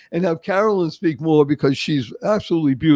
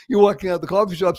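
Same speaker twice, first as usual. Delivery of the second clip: ordinary talk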